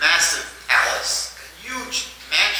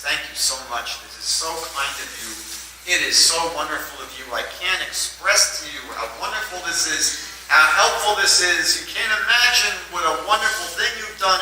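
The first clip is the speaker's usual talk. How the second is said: thanking profusely. Retold or imitated. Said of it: "he thanked this guy profusely".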